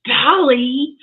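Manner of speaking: gasp, then a high, loud "Dolly?"; surprised. Real, not acted. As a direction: react with real astonishment to the name. Gasping reaction to co-host's pick.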